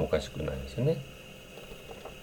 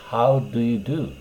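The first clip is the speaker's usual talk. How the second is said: formal greeting; 4 semitones higher, slower than usual. Shown as a demonstration. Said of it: "お堅い表現です".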